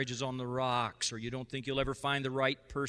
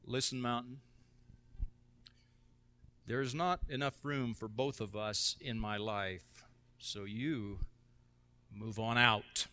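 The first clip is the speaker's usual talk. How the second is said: calm faith; 3 semitones lower than usual. Acted. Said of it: "you don't have to yell. You just say in faith".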